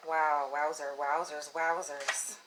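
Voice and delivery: hushed awe. Real, not acted. Quiet awed exclamations.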